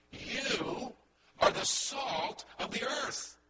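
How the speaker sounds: YOU set apart, then a pause before the rest; emphatic YOU. Shown as a demonstration. Preacher showing congregation the first word is emphatic, stress on YOU. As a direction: put the emphasis on YOU and let it stand alone. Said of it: "It's in an emphatic position".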